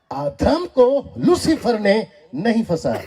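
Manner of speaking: slow, spaced-out emphatic declaration; bold proclamation. Real, not acted. Preacher repeats his claim to the congregation, bold proclamation. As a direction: state it boldly, phrase by phrase. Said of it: "डंके की चोट पे बोलता हूं".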